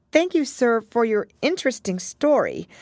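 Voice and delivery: put-on a little girl being politely proper; young Alice. A narrator's reading.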